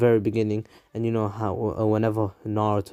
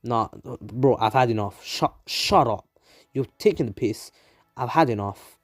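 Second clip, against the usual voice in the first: rude Naruto. Acted. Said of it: "Naruto's being, you know, rude now".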